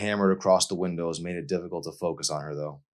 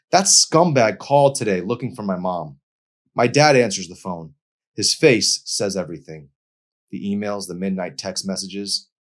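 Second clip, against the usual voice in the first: a hint of a bitter, hurt young woman, higher and louder; lightly voiced girl venting her anger; bitter Emery; 3 semitones higher, 5 dB louder than usual. A narrator's reading.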